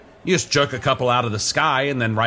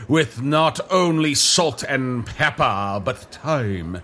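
pompous TV chef; slower than usual. Acted. Chef grandly narrating seasoning.

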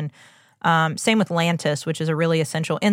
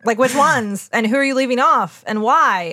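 indignant demand; 5 semitones higher, 4 dB louder than usual. Real, not acted. Demanding answers from J and J.

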